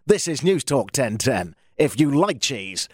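slow, cheesy radio announcer plug; mildly North American cheesy promo read. Shown as a demonstration. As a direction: sell the station like a hammed-up cheesy ad. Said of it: "I can also do highly cheesy".

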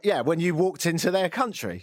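normal talking voice

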